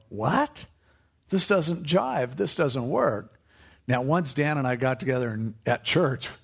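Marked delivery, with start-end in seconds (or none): 0.1-3.4 puzzled surprise. Retold or imitated. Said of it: "you're gonna be there and go".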